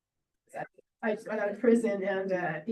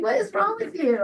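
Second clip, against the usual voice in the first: much higher, louder mock outrage; incredulous squeal; 12 semitones higher, 7 dB louder than usual. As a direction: pretend shock at his quirk. Teasing friend over apples.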